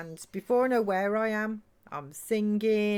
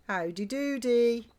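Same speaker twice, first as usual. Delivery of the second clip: mock cowboy greeting; 4 semitones higher, slower than usual. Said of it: "doing accents".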